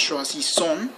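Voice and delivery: "Choisissons" ending on a nasal on, no final S; silent final S. Shown as a demonstration. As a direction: say "Choisissons" as shwa-zee-son with a silent last S. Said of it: "The final S is never pronounced".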